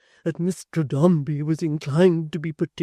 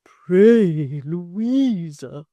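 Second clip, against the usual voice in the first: urging; 5 semitones higher, 12 dB louder, much slower than usual. A narrator's reading. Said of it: "urged Miss Tox".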